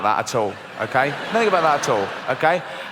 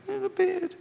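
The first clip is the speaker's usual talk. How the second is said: very high, soft squeak; high hushed voice; 7 dB quieter, slower than usual. Acted. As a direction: squeak it under breath. Fearful voice hushed.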